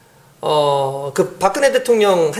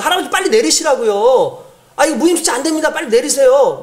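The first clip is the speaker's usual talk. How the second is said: angry driver; 4 semitones higher than usual. Retold or imitated. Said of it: "화를 내면서".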